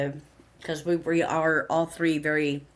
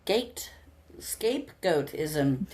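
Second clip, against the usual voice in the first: careful slow; 2 semitones lower, much slower than usual. Real, not acted. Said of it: "That's a tongue twister".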